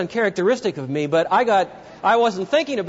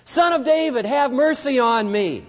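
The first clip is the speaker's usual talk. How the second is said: crying out; 5 semitones higher than usual. Retold or imitated. Blind beggar cries past hecklers.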